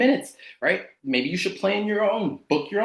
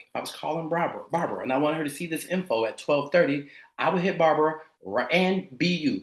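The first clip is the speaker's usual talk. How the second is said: restrained, lower-pitched sample pitch; keeping it together; 3 semitones lower than usual. Shown as a demonstration. Coach demonstrates a call to Barbara, keeping it together. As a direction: keep it composed and contained. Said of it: "I've been keeping it together for you guys".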